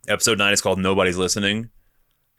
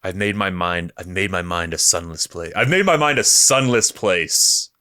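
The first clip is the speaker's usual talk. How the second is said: grave monologue building to a cry; dramatic reading of Luthen. Acted. Fan reading Luthen's monologue aloud, building grave drama. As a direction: recite like a doomed spymaster. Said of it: "I'm just gonna read this".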